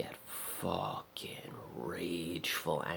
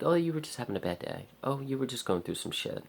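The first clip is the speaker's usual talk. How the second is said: higher, quick mock-sympathetic voice; mock sympathy; 8 semitones higher than usual. Mocking forgiving people, higher mock-sympathetic voice. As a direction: imitate people excusing a bad day. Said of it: "They're like".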